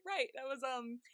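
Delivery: mildly flustered, halting imitation; awkward mock hesitation; a little embarrassed. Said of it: "he's, like, a little embarrassed".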